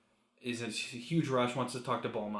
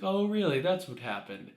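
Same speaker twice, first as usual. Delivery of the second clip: mock suspicion, high loud swoop on the opening; retold skeptical reaction, starting high and easing down; suspicious; 7 semitones higher, 5 dB louder than usual. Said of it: "Beerus is very suspicious, to say the least".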